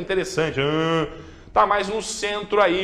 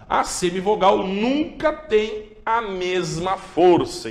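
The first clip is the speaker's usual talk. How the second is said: ordinary talk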